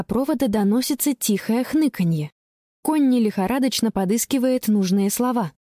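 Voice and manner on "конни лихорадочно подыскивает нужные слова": usual speaking voice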